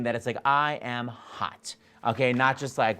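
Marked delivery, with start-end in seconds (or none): 0.4-1.8 self-assured. Shown as a demonstration. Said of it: "make sure that's your meaning".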